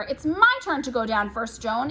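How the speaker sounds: sister claiming her turn; squabbling child. Acted. Twins arguing on the stairs.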